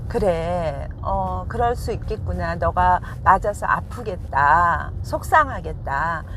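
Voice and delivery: put-on slow, soothing words for a hurt child; slow, tender consoling of a crying child; comforting mother. Shown as a demonstration. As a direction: comfort the younger one gently and slowly. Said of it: "그 마음을 위로해 주시라는 겁니다".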